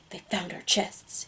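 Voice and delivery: slow, hushed whisper. A narrator's reading. Eight appearing beside the narrator, whispering. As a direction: keep it very soft and slow. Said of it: "he whispers".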